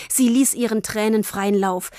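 usual speaking voice

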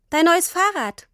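put-on a child showing off a gift; beaming. A narrator's reading. Tini proudly presents the bike to Papa, beaming. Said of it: "sagte Tini strahlend".

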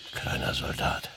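whispered, kleiner Soldat. Acted. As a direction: breathe it as a whisper. Teasing the frightened man.

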